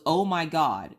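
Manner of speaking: retold thrilled discovery; imitated excitement. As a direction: mimic an excited husband's amazement. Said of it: "my husband so excited".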